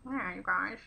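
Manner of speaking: put-on a light take on an actor in an old film. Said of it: "That's what it sounds like to me anyway".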